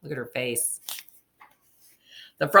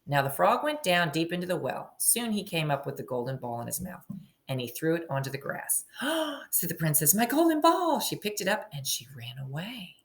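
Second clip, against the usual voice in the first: story narration. A narrator's reading. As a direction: read it like a picture book to a class. Teacher reading story aloud.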